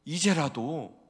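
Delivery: 이제라도 loud, falling; 이제라도 said strong; firm call. Acted. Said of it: "repeated plea".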